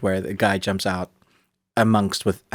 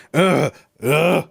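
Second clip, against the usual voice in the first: mock effort grunt, raised in pitch; heaving grunt; 5 semitones higher than usual. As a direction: imitate a man straining to hurl a motorbike. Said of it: "the guy just goes".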